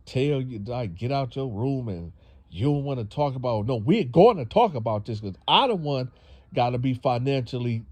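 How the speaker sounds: mock angry mother. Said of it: "she just got real angry".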